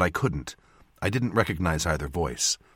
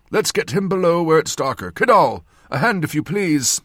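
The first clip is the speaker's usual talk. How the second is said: put-on loud, raised old man's voice; old surgeon's voice; 8 semitones higher, 6 dB louder than usual. A narrator's reading. Old surgeon asking for a hand, loud and directing. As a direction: give orders as an old surgeon.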